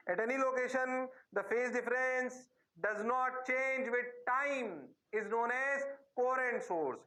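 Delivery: each word said very slowly and evenly; slow dictation. Shown as a demonstration. Teacher dictating the book definition to his class, very slow. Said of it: "ये real definition है".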